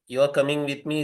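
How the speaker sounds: "You are coming with me" stated evenly; declarative statement. Shown as a demonstration. Lecturer names an assertive sentence, declarative. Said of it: "a declarative sentence".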